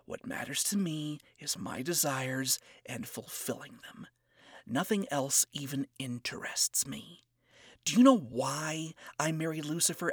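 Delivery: a hint of cocky scorn, hushed; condescending and cocky. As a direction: talk down to him quietly. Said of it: "spoke in a condescending and cocky tone".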